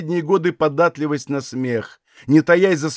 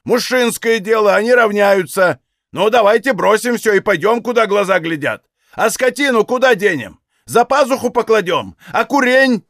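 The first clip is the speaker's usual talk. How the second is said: higher, louder raging tirade; frenzied yelling; 6 semitones higher, 4 dB louder than usual. A narrator's reading. Father raging at the women about leaving home. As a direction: rant at the women, beside himself. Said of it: "исступлённо заорал".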